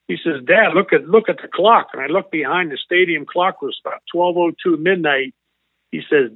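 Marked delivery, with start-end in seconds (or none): 0.5-1.9 excited crying. Retold or imitated. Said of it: "He's crying and his face is beet red".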